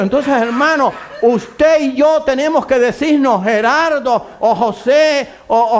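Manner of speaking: impassioned pulpit proclamation at a high pitch; full-force preaching. Real, not acted. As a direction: cry it out to the whole congregation.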